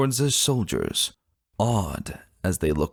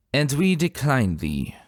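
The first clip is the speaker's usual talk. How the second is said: haughty, higher royal refusal; scornful dismissal; 6 semitones higher than usual. Acted. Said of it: "Luna dismissed with scorn".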